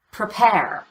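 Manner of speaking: "Prepare" with reduced "Pre" and stressed, falling "pare"; stress on second syllable. Shown as a demonstration. Teacher repeats prepare for learners, stressing "pare" in "Prepare". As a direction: cut the first vowel of "Prepare", land fully on "pare". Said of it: "gets all the stress".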